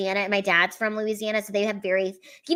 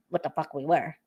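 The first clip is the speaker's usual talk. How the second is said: usual speaking voice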